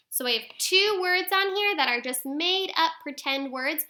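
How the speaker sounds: ordinary talk, nothing marked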